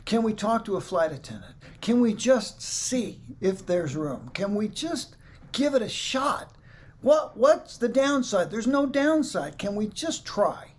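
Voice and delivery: slow, high, pleading voice rising to a cry. Retold or imitated. Passenger begging the gate agent to let the guitar on, slow and high. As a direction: beg slowly, pitch climbing on downside. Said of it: "I just start pleading".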